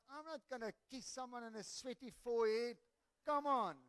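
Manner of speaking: balk, then push out an exasperated plea; retold protest. Retold protest at odd instruction.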